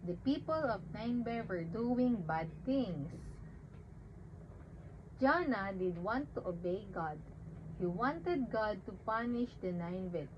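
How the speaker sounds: put-on simple Bible story read to a baby; reading to children. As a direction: tell it gently like a bedtime story. Reads Jonah story to baby.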